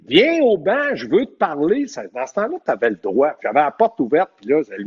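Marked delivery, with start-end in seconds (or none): 0.1-1.9 calling out over the crowd. Retold or imitated. Coach yelling to the referee across the noisy rink. Il criait à l'autre bout.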